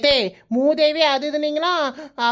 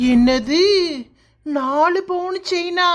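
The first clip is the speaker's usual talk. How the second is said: shocked disbelief; 3 semitones higher, slower than usual. Acted. Wife to husband about mother's chain, jealous shock. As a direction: gasp out the price in disbelief.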